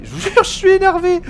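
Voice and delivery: high, loud exasperated yell; angry outburst. Real, not acted. Streamer swears to viewers he's worked up, angry high yell. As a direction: voice leaps up in real annoyance.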